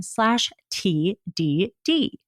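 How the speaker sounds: slow, breathy-sounding seductive read; sexy voice. Shown as a demonstration. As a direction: purr the web address slowly. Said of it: "That was me trying to have a sexy voice".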